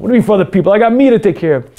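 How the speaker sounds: defensive retort. Acted. Selfish man dismissively answers his conscience. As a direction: shrug it off, self-centred.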